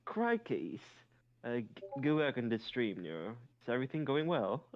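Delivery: shaky attempt at a thick British accent; Vedal. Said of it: "The man spoke with thick British accent".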